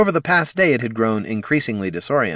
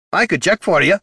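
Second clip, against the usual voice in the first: gruff dwarf voice; 10 semitones higher, 5 dB louder than usual. Acted. Gorm threatens.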